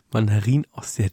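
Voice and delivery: slow, disbelieving echo; incredulous. Real, not acted. Podcaster repeating an odd food question, incredulous. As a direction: draw it out slowly in baffled disbelief.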